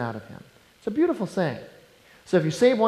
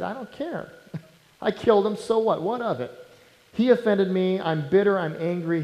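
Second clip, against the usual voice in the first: callous attitude; 3 semitones higher than usual. Acted. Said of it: "this was kind of the attitude that Cain had".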